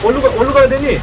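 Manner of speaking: high rushed panic; panicked. Real, not acted. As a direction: babble while fleeing. Spotted by monster, fleeing.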